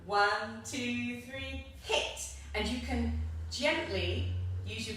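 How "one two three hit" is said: counting aloud for class. Shown as a demonstration. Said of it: "Do it with me one more time".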